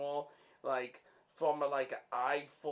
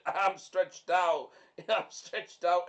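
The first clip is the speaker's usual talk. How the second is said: laughing; 5 dB louder, slower than usual. Real, not acted.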